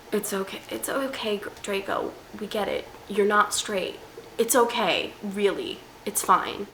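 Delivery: soft, gentle mock consoling; softly reassure, as if comforting a friend; mock reassurance. Vlogger tells Draco it's okay, soft mock reassurance.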